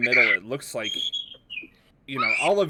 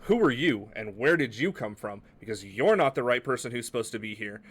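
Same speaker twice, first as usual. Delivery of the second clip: indignant demand; 4 dB louder than usual. Acted. NPC confronts Raz.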